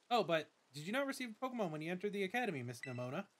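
lightly voiced formal school director; a hint of a polite headmaster welcoming a student; Director Clavel. Director greets the new student, lightly formal voice.

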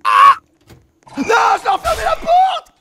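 high, loud panicked yell; panicked shout. Real, not acted. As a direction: cry out in dismay. Panicked mistake in game.

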